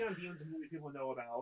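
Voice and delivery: distant off-mic voice; speaking from across the room; far away. Real, not acted. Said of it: "I love how you sound so far away".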